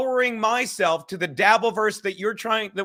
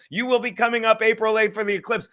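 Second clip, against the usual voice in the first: game show announcer; faster than usual. Retold or imitated. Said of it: "he talks like a game show announcer sometimes".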